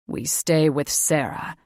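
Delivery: mate Drake refusing the fae father, firmly; firm protective mate. A narrator's reading. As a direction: plant your feet and refuse.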